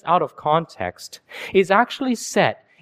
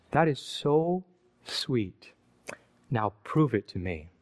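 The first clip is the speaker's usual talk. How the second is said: put-on soft, coy girlfriend voice, quieter; girl voice, coy demand; 4 semitones lower, 9 dB quieter, slower than usual. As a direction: coax him sweetly, then demand proof. Girl demands proof in story.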